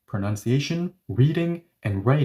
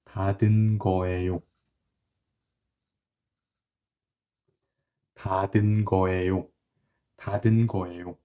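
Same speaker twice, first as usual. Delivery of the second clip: definite certainty; 4 semitones lower, much faster than usual. Shown as a demonstration. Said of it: "I'm delivering it with one hundred percent definite certainty".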